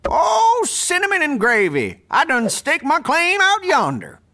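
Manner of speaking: lightly voiced old prospector. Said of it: "doing my old prospector character".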